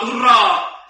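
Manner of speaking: mild mock shout of joy; small boy's cheer. Small boy raises his stick after the goal, mild cheer. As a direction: join the cheer, lightly acted. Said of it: "ja huutaa".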